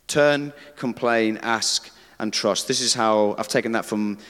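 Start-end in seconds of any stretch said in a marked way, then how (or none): 0.1-2.7 Turn, complain, ask, and trust said again at half speed, drawn out; slow recap for the congregation; slow repeat. Shown as a demonstration. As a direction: repeat the four steps slowly so they stick. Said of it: "And the pattern is this".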